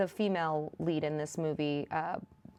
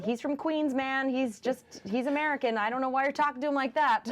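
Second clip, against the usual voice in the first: retold exasperated protest; 5 semitones higher than usual. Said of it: "we'd be like".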